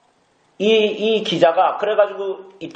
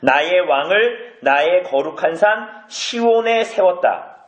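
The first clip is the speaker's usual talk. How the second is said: slow reading; much slower than usual. Shown as a demonstration. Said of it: "시편 이 편에 보면".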